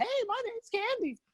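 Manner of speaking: squeaky, very high put-on girlish falsetto. Retelling how a friend phoned a man pretending to be a girl: imitating a friend faking a girl's voice. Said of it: "talking like a guy".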